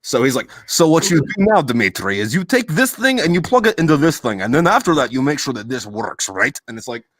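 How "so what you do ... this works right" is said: put-on light Russian accent. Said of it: "fresh off the fucking boat".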